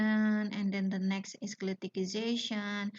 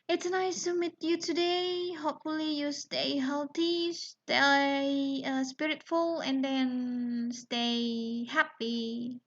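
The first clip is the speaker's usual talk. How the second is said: bright farewell; 5 semitones higher than usual. Real, not acted. Teacher's cheerful video sign-off.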